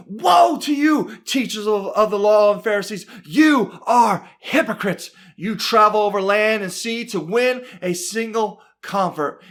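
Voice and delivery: preacher acting out an in-your-face telling-off; scolding rebuke. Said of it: "he is right up in their faces".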